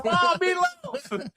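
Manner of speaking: high, slow whiny call to mom; drawn-out mock yell upstairs; yelling across the room. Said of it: "in their mom's basement going".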